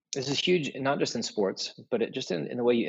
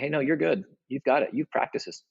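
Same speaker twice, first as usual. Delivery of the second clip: encouraging; 5 semitones higher than usual. Shown as a demonstration. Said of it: "One was calling them up, saying".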